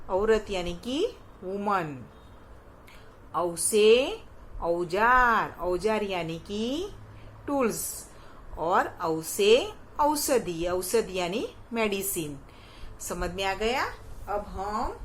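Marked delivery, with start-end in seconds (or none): 3.3-5.6 slow drill. Shown as a demonstration. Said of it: "teacher drills vowel word". 8.6-10.7 slow drill. Shown as a demonstration. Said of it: "teacher drills vowel word".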